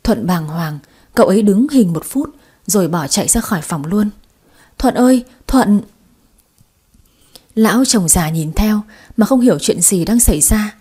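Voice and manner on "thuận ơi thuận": calling after. Acted. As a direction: call him back, higher and louder. Calling after him running.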